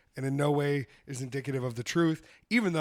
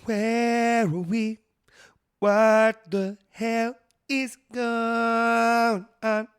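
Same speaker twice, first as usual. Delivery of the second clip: goofy confused voice; 8 semitones higher, 7 dB louder, much slower than usual. Pretend. Goofy bewildered bit.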